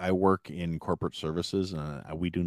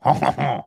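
loud, higher-pitched French chuckle; mock French laugh; 7 semitones higher, 8 dB louder than usual. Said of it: "Can we get a French accent".

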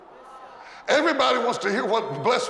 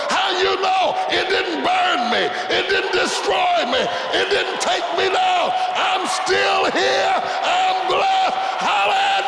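high, loud shouted sermon; full-volume preacher's cry, "I'm still here" stretched slow; preaching at full force; 9 semitones higher, 4 dB louder than usual. Acted. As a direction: preach it out to the back row with everything.

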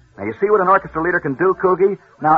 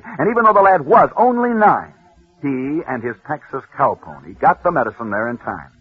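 building radio storyteller, punching the climax; dramatic story narration. Acted. Radio host telling listeners a sports legend, dramatic narration. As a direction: tell it like a rousing radio legend.

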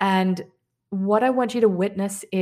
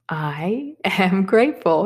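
slow whispered affirmation; slower than usual. Shown as a demonstration. Teacher repeats gratitude affirmation, whispering.

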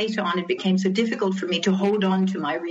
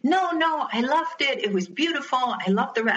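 higher, insistent no, no, brushing off the correction; insisting; 4 semitones higher than usual. Retold or imitated. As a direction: gush and insist, not letting her be corrected. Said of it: "you just kept insisting".

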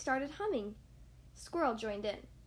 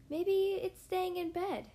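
wondering crow; 5 semitones higher than usual. Acted. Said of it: "thought Charlie".

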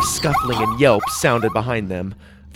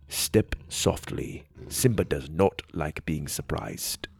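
hushed, softer and lower; soft warning whisper; quiet; 6 semitones lower, 9 dB quieter than usual. Acted. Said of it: "the man said quietly".

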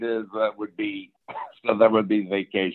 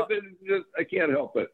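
after laughing hard; 10 semitones higher, 4 dB quieter than usual. Real, not acted.

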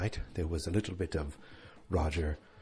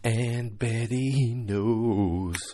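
dramatic reveal; 4 semitones higher, 6 dB louder, much slower than usual. Acted.

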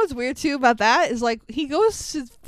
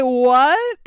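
mock surprise; 6 dB louder than usual. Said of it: "And he's like".

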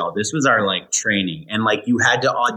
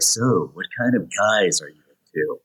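low, lightly smooth come-on; smooth pickup voice; 4 semitones lower than usual. Retold or imitated. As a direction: ask it like a slick flirt. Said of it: "Did you say it in that voice?".

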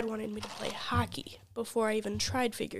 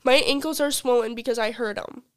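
loud mock indignation; half-serious angry snap; retold anger; 4 dB louder than usual. Retold angry reply to Colin.

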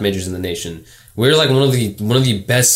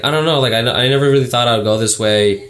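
higher-pitched put-on girl voice; 3 semitones higher than usual. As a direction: imitate a girl, pitched up and unsure. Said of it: "That's my girl voice".

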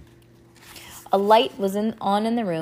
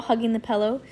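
ordinary delivery, nothing marked

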